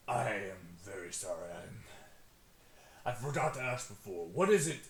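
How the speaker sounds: low, dopey orc voice; dopey cartoon bellow. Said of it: "the orc speaks up".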